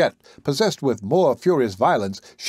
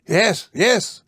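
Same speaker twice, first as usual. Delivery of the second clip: high, eager yes, yes; an eager outburst of discovery; excited cry; 9 semitones higher than usual. A narrator's reading. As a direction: cry out at the sudden sighting. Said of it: "he cried".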